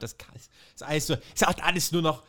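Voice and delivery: lightly hammed-up lofty outrage; half-hearted pompous Cole; mock pompous. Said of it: "Cole meint".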